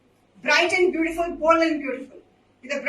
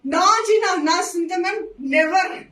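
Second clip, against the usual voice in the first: emphatic no; 2 semitones higher, 5 dB louder, slower than usual. Real, not acted. Asked if she watches her lives.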